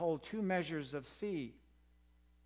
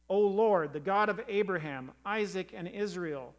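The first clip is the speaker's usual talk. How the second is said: fervent loud prayer; 4 dB louder than usual. Acted. Elijah prays aloud at altar.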